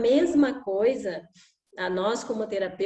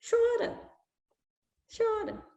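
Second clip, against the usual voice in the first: indulgent father; 11 semitones higher, 4 dB quieter, slower than usual. Retold or imitated. Father repeats permission to cry.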